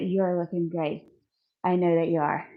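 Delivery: breathless between sets; winded, catching breath. Real, not acted. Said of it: "I'm a little out of breath".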